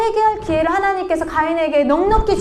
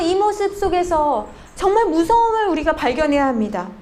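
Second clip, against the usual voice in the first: ordinary talk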